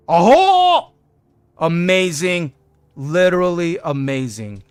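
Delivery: very high, loud burst of delight; a sudden yelp of joy; delighted shout. Real, not acted. Gamer seeing the feature work, yelping with delight.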